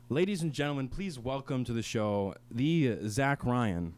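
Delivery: slow, drawn-out announcer voice; slow hosting introduction; announcer intro. Acted. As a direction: introduce him like a show host. Host announcing guest.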